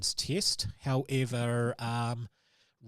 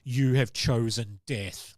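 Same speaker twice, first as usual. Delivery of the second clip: a slow, louder monster verdict; slow ominous creature voice; monster's verdict; 2 semitones lower, 5 dB louder, slower than usual. Acted. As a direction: pronounce the doom slowly, like a creature.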